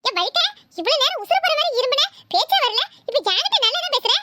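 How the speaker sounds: bratty grandson mocking grandpa's acting; cheeky boy. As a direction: needle grandpa like a naughty boy. Boy teases his grandfather.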